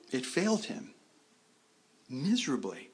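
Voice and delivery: miserably whispered with no voice. Real, not acted. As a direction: breathe miserably out as a hushed whisper. Preacher stressing Peter's failure.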